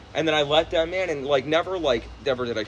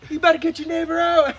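high, loud words through laughter; laughing; 14 semitones higher, 7 dB louder than usual. Real, not acted. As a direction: laugh while saying it. Laughing at friend's joke.

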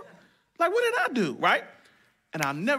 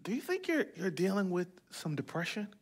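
tender question; 9 dB quieter than usual. Retold or imitated. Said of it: "I said".

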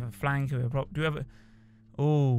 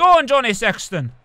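louder, higher cheer for the player; 5 semitones higher, 8 dB louder than usual. Real, not acted. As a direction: spur Johnny Sexton on.

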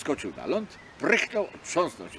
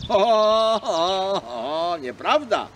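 booming, much louder ho-ho fading down; offended seal; 7 semitones higher, 10 dB louder, slower than usual. Acted. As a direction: protest with a big offended laugh. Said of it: "zawołała foka obrażona".

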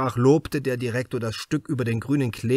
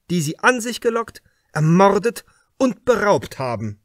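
a raised, higher, pressing voice, louder; probing inspector; 7 semitones higher, 5 dB louder than usual. Acted. Inspector Krause questions the suspect writer Hartwig, louder and pressing. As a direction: lean in hard, like an interrogator closing in.

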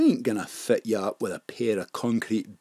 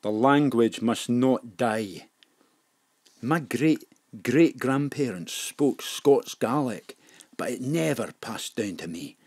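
solemn; 4 dB quieter than usual. Acted. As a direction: speak as if seeing ancestors. Solemn faraway reflection.

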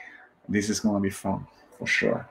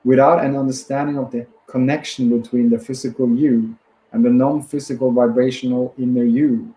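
measured book reading in phrases; deliberate self-help audiobook reading; read-aloud narration. Acted. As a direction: read the passage out steadily, pausing between phrases.

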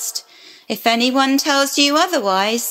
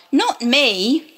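protesting Eve; 3 semitones higher than usual. Acted. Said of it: "she cried".

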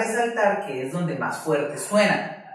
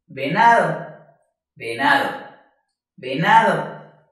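"venado" as a whole word, leaning on "na"; stress on NA; 2 semitones lower, 3 dB louder than usual. Shown as a demonstration. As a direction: let "na" ring out in "venado". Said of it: "la sílaba que suena más fuerte vibrará". ("venado" completo, acentuando "na")

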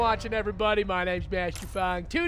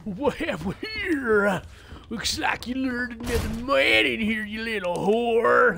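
Dead Rising villain voice. Retold or imitated. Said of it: "That's from Dead Rising".

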